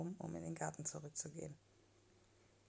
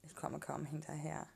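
ordinary delivery, nothing marked

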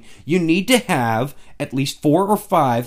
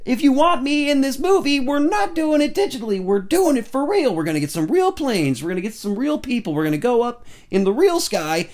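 Tom Cruise; 10 semitones higher than usual. Retold or imitated. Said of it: "Tom's like".

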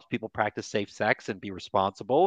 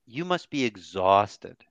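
slow empathetic statement; 2 semitones lower, slower than usual. Shown as a demonstration. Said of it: "demo empathetic statement".

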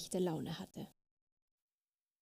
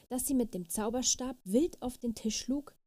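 usual speaking voice

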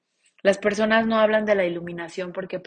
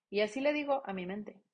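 soft whispered aside; whispering to viewers; 8 dB quieter than usual. Acted. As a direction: hush it.

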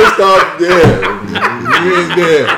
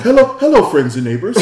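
mock proper host greeting; chirpy welcome like a polite gentleman; imitating a Queen's English hello; posh greeting. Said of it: "he started the podcast off with".

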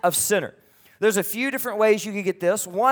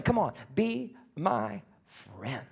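gentle invitation; 8 dB quieter, much slower than usual. Acted. Jesus inviting people to friendship.

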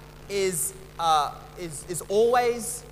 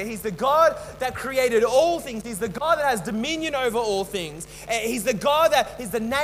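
preaching; 2 semitones higher than usual. Acted. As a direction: proclaim each name of God with rising fervour. Proclaims the names of God.

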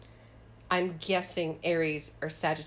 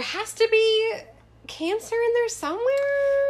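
emphatic insisting; 7 dB louder than usual. Real, not acted. Insisting on Cancer.

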